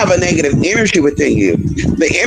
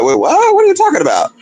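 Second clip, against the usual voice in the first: mock surprise; 9 semitones higher than usual. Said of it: "I was like".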